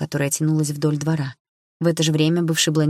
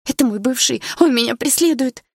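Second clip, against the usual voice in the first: higher, louder anxious outcry; frightened plea; 8 semitones higher, 4 dB louder than usual. A narrator's reading. Blonde tells the narrator her ex stalks her, frightened. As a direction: blurt it out in fear.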